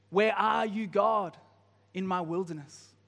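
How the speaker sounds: crying out to God. Pretend. Preacher voicing a believer calling loudly to God. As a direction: call out from the wilderness. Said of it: "Why are you not shouting?".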